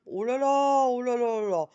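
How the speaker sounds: loud high exclaiming. Real, not acted. Laughing at her tipsy evening, loud exclaim. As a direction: exclaim it, amused and embarrassed.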